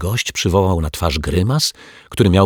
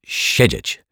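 "Siedzieć" repeated slower in the foreign guest's voice; Turk's careful, drawn-out "Siedzieć"; Turk correcting himself. A narrator's reading. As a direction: echo the correction "Siedzieć" in character. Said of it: "poprawił się Turek".

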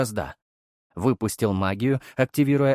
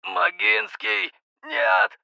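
rising to a higher scream of NO; desperate last cry; 11 semitones higher, much slower than usual. A narrator's reading. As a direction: cry out in terror as you die. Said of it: "Последний хрип капитана оборвался".

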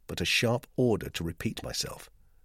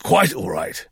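ghastly unconcern; 3 semitones higher, 7 dB louder, slower than usual. Acted. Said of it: "he said with ghastly unconcern".

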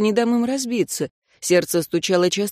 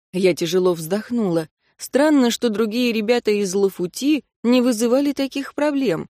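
plain reading voice

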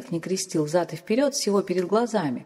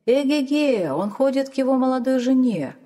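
sly realisation; 6 semitones higher, 4 dB louder than usual. A narrator's reading.

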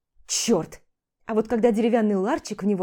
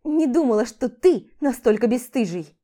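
loud, indignant accusation; angry reproach; 3 semitones higher, 5 dB louder than usual. Acted. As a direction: shame him out loud. Quarrel with husband, she shouts. (громкий возмущённый упрёк)

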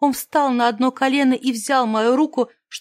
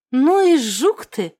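обиженно; 4 dB louder, slower than usual. Acted. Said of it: "обиженно бросила я".

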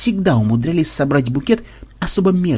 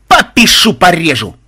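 high, loud war cry; loud, high-pitched attack yell; battle cry; 4 semitones higher, 8 dB louder than usual. Acted. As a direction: shout a rowdy threat as you charge. Battle cry while attacking in game.

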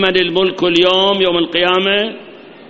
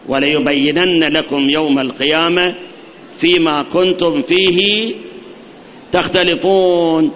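very slow drawn-out recitation; Quran recitation; slower than usual. Acted. Preacher recites the verse to his congregation, very slowly. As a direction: stretch each word of the verse slowly.

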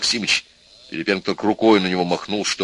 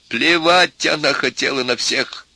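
high, slow, annoyed retort; irritated; 7 semitones higher, slower than usual. A narrator's reading. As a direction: cut the speech down in irritation. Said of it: "раздражённо сказал профессор".

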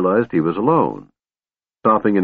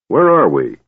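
surly; 4 semitones higher, 4 dB louder than usual. Acted. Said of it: "Flint asked surlily".

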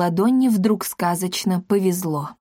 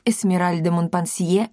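ordinary delivery, nothing marked

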